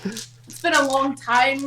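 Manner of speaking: put-on slow Australian accent straying into Irish; badly faked Australian accent. Excusing her doubtful accent to teasing friends, mock Australian accent. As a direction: wobble from fake Australian toward Irish. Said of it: "Australia by way of Ireland?".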